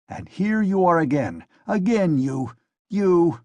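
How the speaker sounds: police officer losing his temper; angry tirade. Acted. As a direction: berate her as if barely holding back. Enraged assistant berates the lady.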